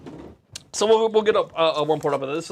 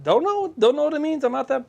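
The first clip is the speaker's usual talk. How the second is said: chipmunk voice; 9 semitones higher than usual. Pretend. High squeaky voice again.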